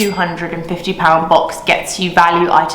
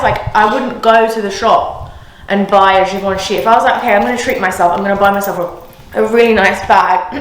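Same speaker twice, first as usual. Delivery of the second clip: slightly breathless talking; out of breath; faster than usual. Real, not acted. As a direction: speak a bit winded. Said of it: "I'm so out of breath".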